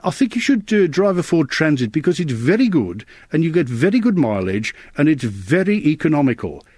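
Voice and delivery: high, lilting West Bromwich accent, imitated; selling a Ford Transit with a lifted West Midlands twang. Voice artist demoing a local West Midlands accent for a car ad. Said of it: "Guest Motors in West Bromwich".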